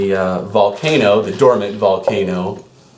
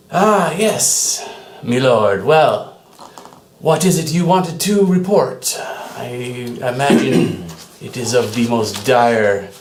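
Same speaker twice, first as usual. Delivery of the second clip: lightly voiced elf beggar; 2 semitones higher than usual. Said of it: "he's a high elf, dressed as a beggar".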